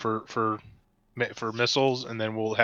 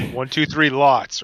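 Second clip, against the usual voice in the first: slow count; 4 dB louder, slower than usual. Shown as a demonstration. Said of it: "slow counted-out "three lots".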